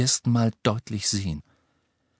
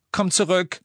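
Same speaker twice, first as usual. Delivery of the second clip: raised, higher plea; pleading call; 9 semitones higher than usual. A narrator's reading. Hermine begging Ron as he leaves, pleading call. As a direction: beg him to come back.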